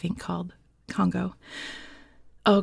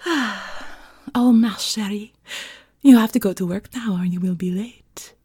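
put-on French-accented seductive housewife; English with a careful French accent; 4 dB louder than usual. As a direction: try out a French teacher's accent. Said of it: "the accent of the French teacher".

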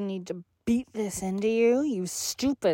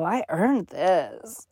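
slow satisfied; 2 semitones lower, slower than usual. Acted. Savoring pleasure.

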